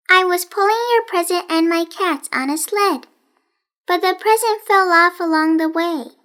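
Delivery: lightly voiced strange girl, sing-song; odd girl Rosamond.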